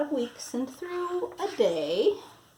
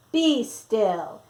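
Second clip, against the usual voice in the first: firm command; 6 dB louder than usual. Acted. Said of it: "Till Max said".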